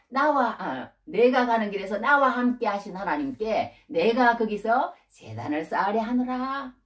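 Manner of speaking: slow, drawn-out declaiming of scripture; scripture reading. Acted. Preacher quoting Jacob's resolve to build an altar, slow declamation. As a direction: proclaim the verse with stretched, measured phrases. Reads Jacob's words aloud.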